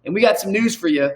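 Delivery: playful emcee hype, building to the name; announcer introduction. Pretend. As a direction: introduce him like a ring announcer. Announces guest like an MC.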